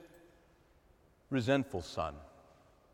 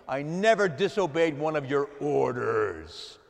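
resentful son; 2 semitones higher, 9 dB louder, slower than usual. Acted. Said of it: "It's the word for slave".

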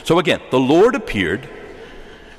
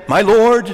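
"My Lord" higher and louder, "Lord" hit hard; "My Lord" raised and loud with a falling "Lord"; emphatic "My Lord"; 7 semitones higher, 6 dB louder than usual. Shown as a demonstration. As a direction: call out "My Lord" as the proof.

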